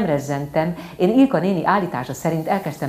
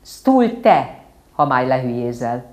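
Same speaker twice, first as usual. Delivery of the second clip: stern father correcting; 2 semitones lower, 6 dB louder than usual. Acted. Father corrects child's Latin.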